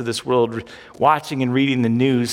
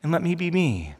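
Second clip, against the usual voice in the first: gentle voice of God. Acted. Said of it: "God says".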